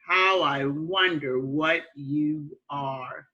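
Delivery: slow, measured nursery rhyme recital; teacher reciting verse slowly; reciting a poem. Shown as a demonstration. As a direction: read the rhyme out to young children, lingering on line ends. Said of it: "we're gonna read our poem".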